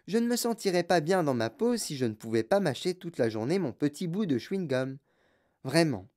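talking while chewing gum. Acted. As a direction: chomp gum between the words. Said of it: "elle mâchait du chewing-gum avec férocité".

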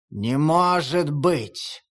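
very slow, stunned denial; stunned disbelief. Acted. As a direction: let it sink in, dazed. Stunned wolf. (ошеломлённо, очень медленно)

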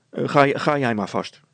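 loud, stumbling brush-off; hesitant dismissal. Acted. Brilstra sends his wife on ahead, hesitantly. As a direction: send her off haltingly.

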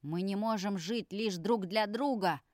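shouted. Acted. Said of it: "крикнул Алексей прямо тебе в лицо".

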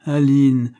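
nom lancé plus fort et plus aigu; élan amoureux. Acted. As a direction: appeler sa belle avec passion. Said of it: "que ne puis-je vous aimer". (Aline appelée plus fort, avec élan)

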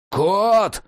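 high, urgent one-word call; alarmed call. A narrator's reading. Jack calls Cat as the lantern dies, alarmed.

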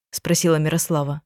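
ordinary delivery, nothing marked

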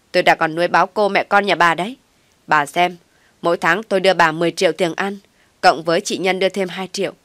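loud, fast, contemptuous tirade; angry rant. Acted. Daughter-in-law berates mother-in-law about money, loud and contemptuous. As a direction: lay into her with scorn.

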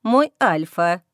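a shy, low interjection; timidly raising a voice. A narrator's reading. Servant timidly addressing her Alpha, low and shy. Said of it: "робко подала голос Фира".

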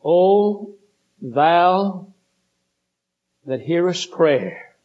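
slow, measured reading of a psalm verse; solemn scripture reading. Acted. Preacher reading the psalm to the congregation, slow and solemn. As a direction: lift the old words out slowly and reverently.

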